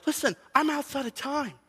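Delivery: God gently answering a complaining believer; voicing God. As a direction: speak as God, patient but firm. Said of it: "when God is like".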